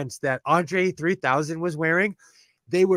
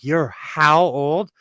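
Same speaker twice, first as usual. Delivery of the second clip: slow, stretched-out disbelief; playfully astonished reaction; mock incredulous; 4 dB louder, much slower than usual. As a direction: imitate someone taken aback, dragging out the words. Imitates people shocked by age.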